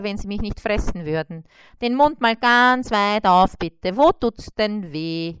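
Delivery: a hint of a brisk, jolly dentist. Mosquito dentist greets and examines the spider, lightly voiced.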